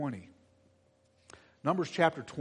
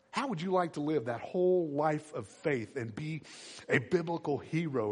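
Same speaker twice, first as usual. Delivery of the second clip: normal talking voice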